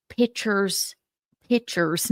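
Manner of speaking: "pictures" with the k dropped, pitchers; Southern-accented "pictures". Retold or imitated. Imitating a Southern friend saying pictures, "pitchers" in a drawn Southern accent. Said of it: "She has this charming Southern accent".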